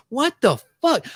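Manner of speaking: high, incredulous "what the"; mock disbelief. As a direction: act out stunned disbelief. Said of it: "I'm like".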